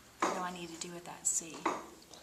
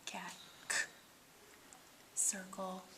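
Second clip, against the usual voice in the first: soft, near whispered run through the letter sounds; soft recital; 7 dB quieter than usual. Shown as a demonstration. Teacher softly reciting the letter chart to a student. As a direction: murmur the alphabet chart softly. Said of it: "What do we have?".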